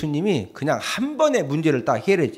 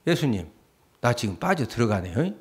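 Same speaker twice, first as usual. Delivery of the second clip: hushed, lower plea as Peter sinking; quiet voiced Peter; 6 semitones lower, 6 dB quieter than usual. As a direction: voice Peter's small frightened plea. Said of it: "베드로가". (물에 빠지는 베드로의 작고 낮은 애원)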